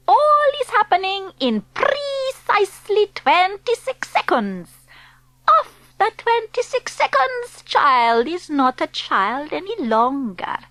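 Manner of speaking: a hint of a foreign witch accent; Grand High Witch. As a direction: speak as the stern witch leader.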